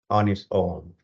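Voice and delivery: measured meditation guidance with long, spacious pauses; guided meditation. Real, not acted. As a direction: guide them through breath awareness, phrase by unhurried phrase. Leads a breathing meditation.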